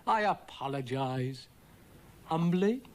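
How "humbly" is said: character voice. A narrator's reading. Character questions the apology.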